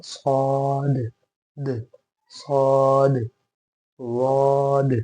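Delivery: long सौद with an echoed final sound; bouncing final consonant. Shown as a demonstration. Teacher showing the echo to a class, सौद and वाद with bounced endings. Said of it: "टकरा करके आपकी आवाज़ दोबारा सुनाई दे".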